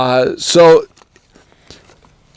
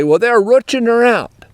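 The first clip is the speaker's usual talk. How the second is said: Pennsylvania Dutch phrase; 6 semitones higher than usual. Retold or imitated. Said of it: "The Dutch folk would say".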